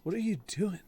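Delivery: a hint of a laid-back California bro; surfer dude Roach. Horse Roach questioning his rider, mild surfer voice. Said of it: "Roach just, like, talking like".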